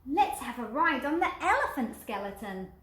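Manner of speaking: eager request; little skeleton voice. Acted. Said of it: "the little".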